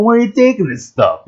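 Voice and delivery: high, loud startled ask; shocked question. Retold or imitated. Asking the recycling guy, high and loud in shock. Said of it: "And I'm like".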